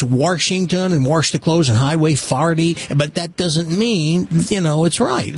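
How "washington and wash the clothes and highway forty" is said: Saint Louis R slipped in, "Warshington", "farty"; Saint Louis accent. Shown as a demonstration. Host showing how locals talk, Saint Louis accent. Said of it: "in Saint Louis, it's".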